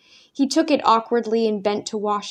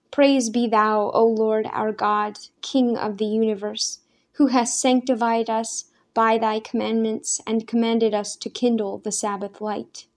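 faltering blessing. A narrator's reading. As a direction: recite the blessing haltingly, out of long habit. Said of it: "the words came falteringly".

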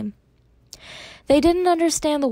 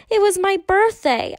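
belligerent; 10 semitones higher, 3 dB louder than usual. A narrator's reading. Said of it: "she said belligerently".

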